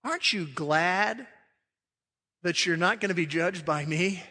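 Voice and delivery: lightly voiced God asking it pointedly; voicing God. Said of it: "He says".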